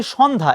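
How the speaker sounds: সন্ধ্যা with open first vowel, "shawn-dha"; wrong pronunciation. Shown as a demonstration. Teacher quoting what many say, wrong সন্ধ্যা as "shawn-dha". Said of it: "এটা কিন্তু ভুল".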